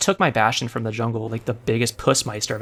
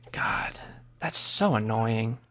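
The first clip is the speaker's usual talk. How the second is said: annoyed whisper; 3 dB quieter, much slower than usual. Real, not acted. Annoyed aside during match.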